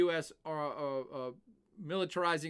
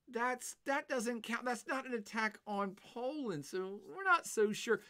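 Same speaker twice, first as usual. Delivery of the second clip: higher, hammed-up Canadian accent with a folksy eh; mock Canadian; 6 semitones higher than usual. Lecturer mimics Canada brushing off Article five, mock Canadian accent. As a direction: play a jokey Canadian diplomat dodging the question. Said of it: "Canada could say".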